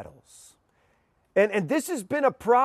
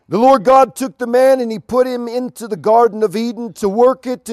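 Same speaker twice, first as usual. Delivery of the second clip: raised, louder reading voice; scripture reading; 4 semitones higher, 6 dB louder than usual. Acted. Preacher reading Genesis to the groom, raised proclaiming voice. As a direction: proclaim the verses to the couple. Reads Genesis passage aloud.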